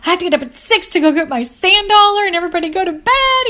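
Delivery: fast and fed up, begging the noise to stop; frustrated whine. Retold or imitated. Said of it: "I'm so frustrated".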